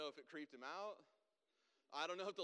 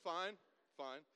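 composed recovery; 8 dB louder than usual. Retold or imitated. Driver correcting his squeaky answer to the trooper, steadier. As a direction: voice brought down from a squeak.

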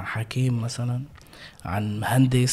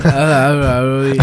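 Ali al-Alawi voice; 7 dB louder, slower than usual. Retold or imitated. Mimics the character after laughing.

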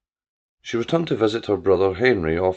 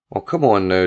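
away from the phone; 3 semitones lower, 4 dB louder than usual. Acted. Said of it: "away from the receiver".

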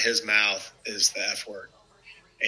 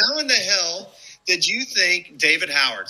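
mock yell; 6 semitones higher than usual. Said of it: "he just screaming and yelling".

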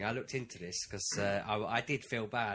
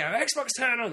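higher, louder repeated command; exasperated shout; 12 semitones higher, 7 dB louder, much slower than usual. Retold or imitated. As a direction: yell it at the TV, fed up. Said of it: "And then you go".

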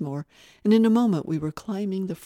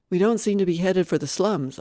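panting; 3 semitones higher, 8 dB louder than usual. A narrator's reading. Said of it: "I panted".

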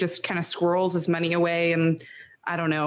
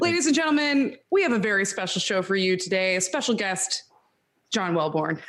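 announcer voice. Retold or imitated. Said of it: "And then you have to say".

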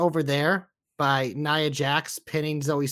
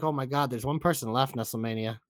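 mock realization; 7 semitones lower, 7 dB quieter than usual. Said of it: "Then I'm like".

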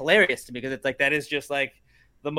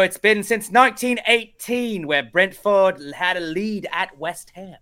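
hammed-up commentator reading out a stat, higher and slow; stats announcer; 6 semitones higher, 5 dB louder, slower than usual. Podcaster mocking odd Brentford stats, hammed-up announcer voice. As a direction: stretch it like a broadcast stat. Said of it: "where they're like".

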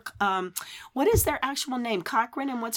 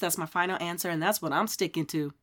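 hoarse radio voice; 2 semitones lower than usual. Real, not acted. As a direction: pass off hoarseness as a sexy radio voice. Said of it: "That's my sexy radio voice".

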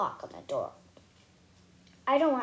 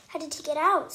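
scream; 4 semitones higher, 5 dB louder than usual. Acted. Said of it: "screams Mary".

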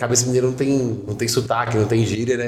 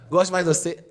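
higher-pitched imitation of an unimpressed girl; mock unenthusiastic; 5 semitones higher than usual. Imitating a Carioca girl chatting with him, mock unenthusiastic. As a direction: mimic her lukewarm compliment. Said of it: "Sem entusiasmo nenhum".

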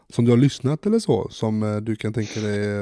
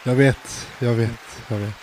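a singer. Retold or imitated. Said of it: "jag försökte härma en sångerska".

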